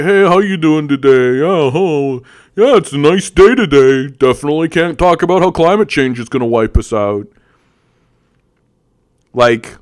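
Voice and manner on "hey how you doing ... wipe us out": lightly voiced bright customer-service chatter; mock cheery barista. Mocking workers chatting about weather, mock-cheery voice. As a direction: parody chirpy small talk.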